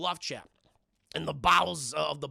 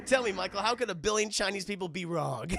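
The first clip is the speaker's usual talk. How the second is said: vampire line, quoted; 2 semitones higher than usual. Retold or imitated. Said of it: "That's the line".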